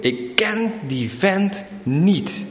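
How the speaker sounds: you, cursing as you deny knowing him, high and slow; cursing denial. Pretend. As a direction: spit out the denial slowly. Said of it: "God staat te vervloeken".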